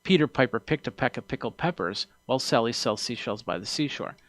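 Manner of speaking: spoken from the corner of the mouth, plosives kept down; off to the side. Shown as a demonstration. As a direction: angle the mouth away from the mic to tame the P's. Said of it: "as opposed to saying it like".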